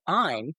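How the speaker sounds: "I'm" said as a Southern "ahm". Acted. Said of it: "like, A H M".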